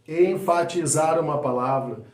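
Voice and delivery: "Enfatizar" stressed and stretched, in one piece; emphasising a word. Shown as a demonstration. Coach repeating the example, stressing "Enfatizar". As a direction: lean on each syllable of "Enfatizar".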